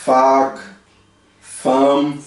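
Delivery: "vaak, fam" with the A held long and open. Shown as a demonstration. Teacher giving words to repeat, long open A in "vaak, fam". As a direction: separate words, open A stretched. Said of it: "no holandês o double A".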